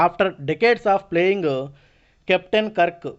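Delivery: slow, deliberate reading of the passage; slow read-aloud. Acted. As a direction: read each word out slowly for students. Reads English passage aloud slowly.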